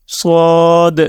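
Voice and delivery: صاد with a full, heavy s; heavy saad. Shown as a demonstration. Teacher spelling for learners, صاد in a heavy voice. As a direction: say صاد heavily and hold it. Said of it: "صاد کو ہم نے بھاری آواز میں پڑھنا ہے".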